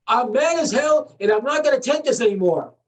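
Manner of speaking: acted defiant outrage; mad as hell. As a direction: declare it angrily, short of a yell. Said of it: "You gotta say".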